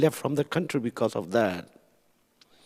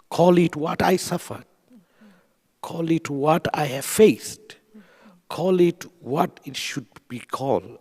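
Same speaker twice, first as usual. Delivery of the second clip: raised, higher and louder, each "call it" pushed hard; emphatic plea; 5 semitones higher, 4 dB louder than usual. Real, not acted. Refugee urging governments to name his suffering, impassioned raised plea. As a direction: demand it, voice lifting with feeling. Advocate pleading for genocide recognition.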